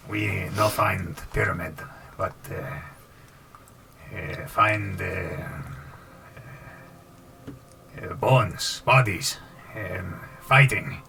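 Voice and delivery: slow creature report in broken speech; halting creature. Acted. Creature reporting to the party what it found, haltingly. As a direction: pick out each word haltingly.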